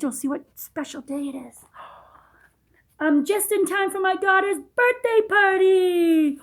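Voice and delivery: hushed delighted whisper with gasp; excited whisper. Acted. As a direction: whisper the big reveal with delight. Page-turn reveal to child.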